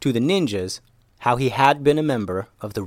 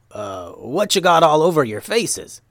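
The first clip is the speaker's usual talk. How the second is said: higher, puzzled character voice; puzzled Momo voice; 5 semitones higher, 3 dB louder than usual. Acted. Momo questions the pie-faced ninjas, puzzled character voice. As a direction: ask it in a put-on, baffled voice.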